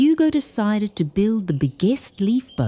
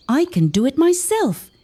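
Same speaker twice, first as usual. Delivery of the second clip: huffing; 8 semitones higher than usual. A narrator's reading. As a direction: huff it out like a stubborn little hedgehog. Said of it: "he'd huff".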